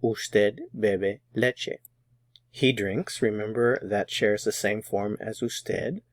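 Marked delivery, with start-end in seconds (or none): 0.0-1.8 slow model phrase. Shown as a demonstration. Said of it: "You drink milk".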